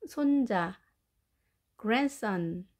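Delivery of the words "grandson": "grandson" said as gran-son; silent D. Shown as a demonstration. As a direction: drop the D in "grandson". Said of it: "D 발음을 하지 않고". ("grandson"을 D 없이 그랜썬으로 발음)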